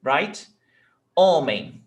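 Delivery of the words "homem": "Homem" with a loud first syllable; penultimate stress. Shown as a demonstration. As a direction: hit "Ho" and let "mem" drop in "Homem". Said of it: "it's the before last".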